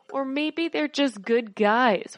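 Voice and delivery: slow breathy whisper, dripping irony; sarcastic whisper. Real, not acted. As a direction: whisper it like a wry joke. Sarcastic aside after grim news.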